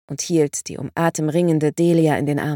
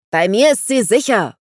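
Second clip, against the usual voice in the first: loud, higher roar of a claim; 4 semitones higher, 6 dB louder than usual. A narrator's reading. Vangelis to Dandelion, claiming the child: loud roar. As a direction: bellow it, claiming the girl as his. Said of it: "brüllte Vangelis".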